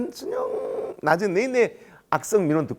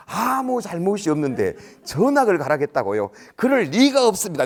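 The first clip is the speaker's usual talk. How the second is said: indignant disbelief; 5 semitones higher, 3 dB louder than usual. Retold or imitated. Rookie official disputing parent's story, indignant disbelief. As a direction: echo the complaint incredulously, then deny it loudly.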